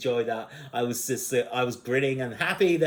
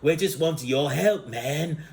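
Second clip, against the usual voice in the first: slightly raised stoner-dude voice; Cheech and Chong; 4 semitones higher than usual. Retold or imitated. Bill and Ted asking Death for help, stoner-dude impression. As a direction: lightly voice a laid-back dude. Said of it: "it sounds like Cheech and Chong".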